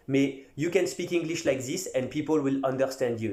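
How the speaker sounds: English spoken with a heavy French accent; thick French accent. Shown as a demonstration. Coach shows fighters they can be understood with a thick French accent. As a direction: speak English like a French beginner would. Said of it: "avec un accent à couper au couteau".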